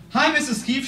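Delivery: first nervous hello to the founder; timid greeting. Retold or imitated. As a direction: greet her meekly, like a kid. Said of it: "She's just like, bam!".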